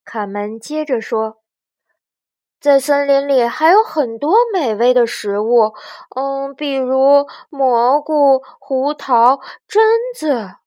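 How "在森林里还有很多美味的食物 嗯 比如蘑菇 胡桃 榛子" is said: earnest little one's suggestion; eager young chick. Acted. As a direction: think up each item, ending high. Young chick lists foods to bargain.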